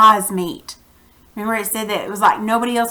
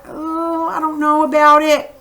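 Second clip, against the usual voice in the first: on edge; 4 semitones higher than usual. Acted. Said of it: "You'd be kind of on edge".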